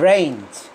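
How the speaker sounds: রেঞ্জ said as a short rhyme of range, the first syllable dropped; correct pronunciation. Shown as a demonstration. Teacher echoes the recording's pronunciation for students, clear. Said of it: "উচ্চারণ হচ্ছে রেঞ্জ".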